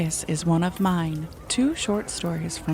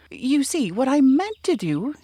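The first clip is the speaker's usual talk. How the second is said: Pooh explaining; 7 semitones higher, 4 dB louder than usual. Acted. Pooh explaining while falling.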